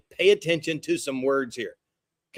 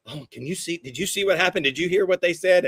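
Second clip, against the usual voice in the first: gasp, then rising, agitated questions; mock alarmed gossip; 4 semitones higher than usual. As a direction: imitate someone breathlessly passing on rumours. Mocks people swayed by rumours.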